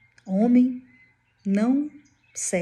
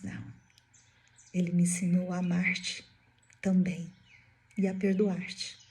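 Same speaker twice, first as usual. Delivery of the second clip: calm forgiveness; 6 dB quieter than usual. Retold or imitated. Joana forgives her executioner from the flames, calm and soft. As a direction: answer quietly, leaving pauses between phrases.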